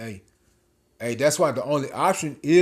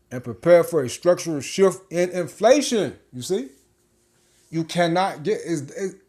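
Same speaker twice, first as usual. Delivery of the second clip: hyped up; 3 semitones higher, 4 dB louder than usual. Real, not acted. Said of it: "I'm getting hyped".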